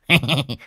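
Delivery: short mischievous cackle; sly chuckle. Acted. Old man leering at the farm worker, sly chuckle. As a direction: let out a creepy little snicker. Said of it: "nở một nụ cười mất nết".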